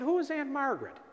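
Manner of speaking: retold curious question. Spiritual director questioning him, retold.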